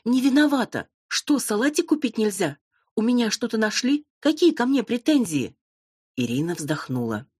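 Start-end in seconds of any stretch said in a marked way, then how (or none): 0.0-5.6 high, indignant protesting voice; indignant blonde. Acted. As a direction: keep squealing your innocence, high. Blonde keeps protesting her innocence.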